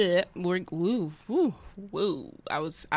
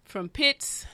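put-on Jamaican accent. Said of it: "you have a Jamaican accent".

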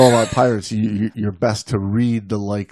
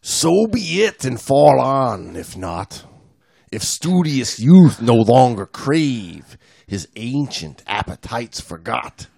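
poem reading; slower than usual. Acted. Reads a poem aloud.

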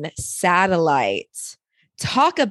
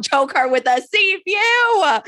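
higher, slower relish of the line; gleeful emphasis; 9 semitones higher, slower than usual. Real, not acted. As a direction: savor the lyric playfully. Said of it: "And come on".

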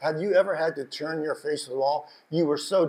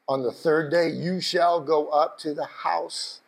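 solemn scripture reading; 3 semitones lower, slower than usual. Acted. Reading promise slowly.

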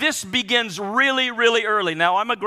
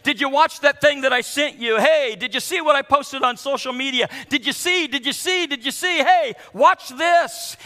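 needy inner voice; 5 semitones higher than usual. Retold or imitated. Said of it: "constantly wants to say".

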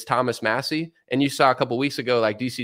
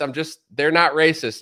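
mock insistence repeated; 3 semitones higher than usual. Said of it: "just to be like".

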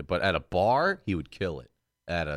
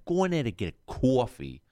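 New York accent mimic; 4 semitones higher than usual. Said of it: "I just love that accent".

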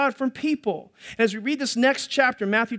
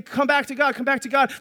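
crying out; 4 semitones higher than usual. Acted. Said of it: "they're crying out and they're saying".

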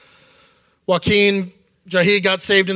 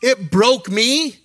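slow, moved, real emotion; emotional; much slower than usual. Real, not acted. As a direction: let the memory get to you, slowly. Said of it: "God, I'm getting emotional".

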